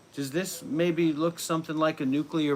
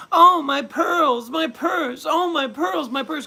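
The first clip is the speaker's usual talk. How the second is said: very high, loud, slow mock shriek; shrill mock falsetto wailing; pearl-clutching shriek; 12 semitones higher, 7 dB louder, slower than usual.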